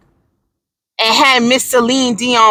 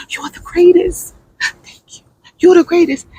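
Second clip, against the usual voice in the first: gushing praise; 4 semitones higher than usual. Pretend. Gushing over Celine.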